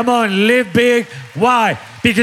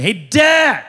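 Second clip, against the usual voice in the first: put-on excited young son; 3 semitones higher than usual. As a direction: imitate a son calling out to his father. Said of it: "That's the way he talks".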